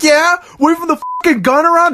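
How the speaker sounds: high, exasperated retort; imitated exasperated Dude; mock exasperated. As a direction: throw it back in disbelief.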